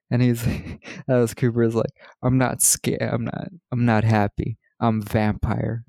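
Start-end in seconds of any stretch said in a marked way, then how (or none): 2.2-5.8 overacted emo acting. Podcaster mocking a hated film line, overacted. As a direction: imitate an actor laying on the emo. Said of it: "he's acting. He says it so, like, acting".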